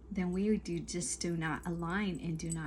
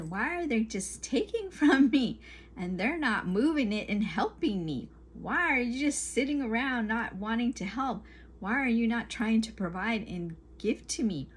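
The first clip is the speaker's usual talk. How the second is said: exasperated questioning, pitched up a little; acted-out "why me" protest; frustrated complaint; 3 semitones higher than usual. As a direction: voice a mildly indignant complaint. Voicing a frustrated complaint about partners.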